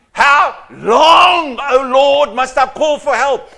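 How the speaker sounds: loud, high anguished plea; desperate cry to God. Acted. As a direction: cry it out like a man at the end of his rope. Preacher voicing Habakkuk's desperate cry.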